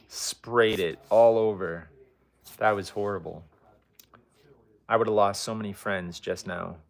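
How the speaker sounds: talking around a wad of gum; chewing gum. Real, not acted. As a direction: gum in the mouth while speaking. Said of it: "I have gum in my mouth right here".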